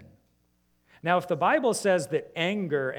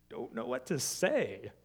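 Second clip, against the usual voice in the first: baffled reply; 2 semitones lower, 4 dB quieter than usual. Pretend. Puzzled hesitant response.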